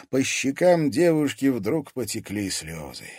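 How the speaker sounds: ordinary delivery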